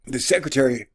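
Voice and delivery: usual speaking voice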